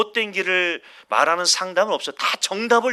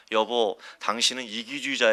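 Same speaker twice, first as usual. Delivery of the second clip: soft, gentle and polite, as if nothing were wrong; gentle calm tone; 8 semitones lower, 7 dB quieter than usual. Shown as a demonstration. Husband calling his wife selfish in a soft, gentle tone. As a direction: say it kindly and softly to your spouse. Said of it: "이런 톤으로 합니까?".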